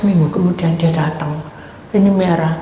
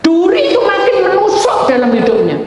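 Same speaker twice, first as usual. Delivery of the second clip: God's stern word; 11 semitones higher, 6 dB louder than usual. Retold or imitated. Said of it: "Tuhan bilang".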